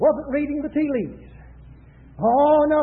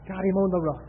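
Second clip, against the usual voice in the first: a hint of the devil, in short low phrases; gloating devil; 6 semitones lower, 4 dB quieter than usual. Preacher quotes the devil on cowed Israel, lightly voiced low gloat. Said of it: "The devil said".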